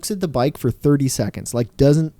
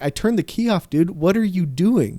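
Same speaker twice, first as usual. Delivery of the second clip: higher-pitched mock disbelief; exasperated retort; 5 semitones higher than usual. Seller confronting the buyer who revved his bike, exasperated retort. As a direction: retell your incredulous challenge, voice pitched up. Retold argument over abused bike.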